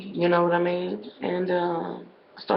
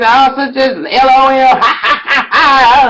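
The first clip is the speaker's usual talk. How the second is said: mocking laugh; 6 semitones higher, 6 dB louder than usual. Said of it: "they said".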